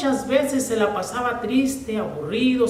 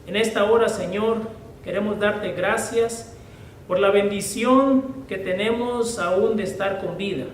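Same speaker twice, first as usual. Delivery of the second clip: reverent, measured opening prayer. Acted. Preacher praying before the sermon, reverent. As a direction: pray over the congregation before the study.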